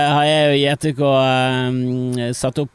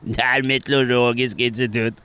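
a lighter nose-held repeat; said again through a held nose; mild nasal mock announcement; pinched nose. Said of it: "peker hun på mikrofonen".

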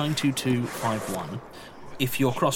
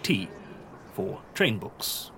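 librarian voice. Acted. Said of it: "this is the librarian's voice".

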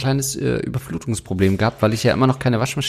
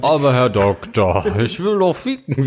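pleading patient; 2 semitones higher than usual. Acted. Acts a patient pleading with doctor.

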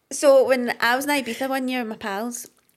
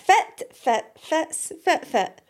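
put-on Doric accent; 6 semitones higher, much slower than usual. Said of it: "And that means".

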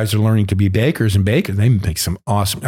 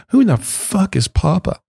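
incredulous question; 8 semitones higher, slower than usual. Retold or imitated. Disbelieving question.

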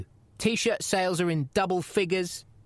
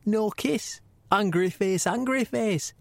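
lightly voiced gruff commissioner reading a text; a hint of the boss's voice, reading out his message; mild mock commissioner voice; Gary Shag impression; 2 semitones higher than usual. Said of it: "I'll try and do it in my best Gary Shag accent".

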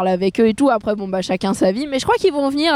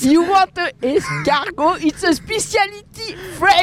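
slow, higher English tourist accent, hammed up; mock English tourist; 6 semitones higher than usual. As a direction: sell it like a cliché English waiter. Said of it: "ton vieil accent de beurre". (accent anglais caricatural de touriste)

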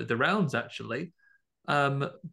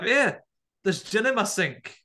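hammed-up Scottish shout, high and loud; a loud Scottish man yelling to his wife; exaggerated Scottish accent; 7 semitones higher, 4 dB louder than usual. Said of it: "a man with an exaggerated Scottish accent".

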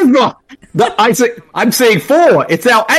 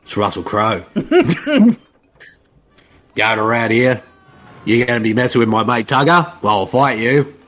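Russell Crowe; 4 semitones lower than usual. Retold or imitated. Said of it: "it'd be more like".

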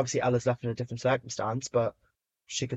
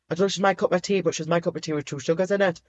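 quick, louder gush of fondness; excited gush; 5 semitones higher, 3 dB louder, faster than usual. Real, not acted. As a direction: rush out the joke with delight. Gushing joke about her liking.

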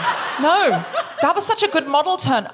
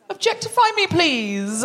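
pleading; 3 semitones higher, slower than usual. Acted. Begging, after "I just want it.

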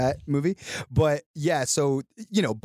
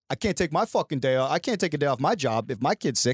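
mock Boston accent, griping; 3 semitones higher than usual. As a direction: do an angry Boston fan. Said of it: "Is that your Boston accent?".

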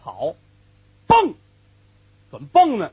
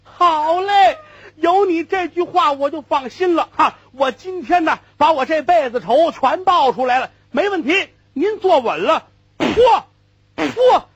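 high and loud, triumphant; gleeful whoop; 7 semitones higher, 5 dB louder than usual. Acted. Old cart driver crowing with glee to Liu Yong. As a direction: whoop with delight, settling scores.

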